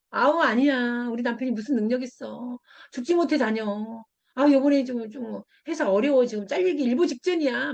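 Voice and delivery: mock modest complaint; negative, self-deprecating. Friend playing down husband after praise, negative and self-deprecating. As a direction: wave off the praise with mild grumbling. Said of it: "오히려 더 부정적으로 얘기할 수 있거든요".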